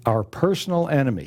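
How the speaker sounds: PERSONAL repeated with deliberate emphasis; stress on PERSONAL. Real, not acted. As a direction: make PERSONAL the key word. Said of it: "Emphasize the word personal".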